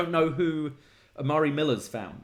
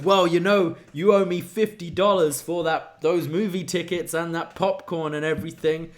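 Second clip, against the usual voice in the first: lightly voiced buddy, a bit higher; mimicking Briggs; 4 semitones higher than usual. Host voicing Briggs asking Jensen for movie money, lightly raised. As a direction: play the friend asking for money back. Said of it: "And he goes".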